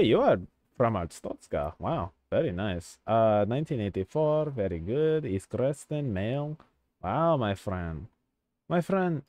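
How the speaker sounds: playful fake Eastern European accent; put-on Eastern European accent. Border inspector checking a traveller's papers, put-on Eastern European accent. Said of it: "I lost the accent".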